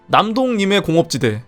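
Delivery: ordinary talk, nothing marked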